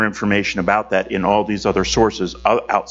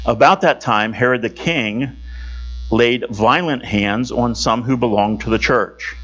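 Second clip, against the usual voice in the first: slightly raised, measured read-aloud voice; Scripture reading; 2 semitones higher than usual. Acted. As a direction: read it out clearly as Scripture to a congregation. Reads Scripture passage aloud.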